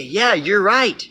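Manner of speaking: nod along like a sneaky friend; sly fox agreeing. Retold or imitated. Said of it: "The fox is gonna say".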